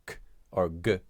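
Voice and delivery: K and G as bare hard sounds, "k" and "guh"; hard consonant sounds. Shown as a demonstration. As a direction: say K and G as hard consonants, not letter names. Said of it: "produce a ha-, hard".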